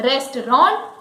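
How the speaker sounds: "restaurant" as REST-ron, final t dropped; another common variant. Shown as a demonstration. Teacher shows another variant, "restaurant" as REST-ron. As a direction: end "restaurant" on "ron" without a t. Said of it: "many people say it restaurant".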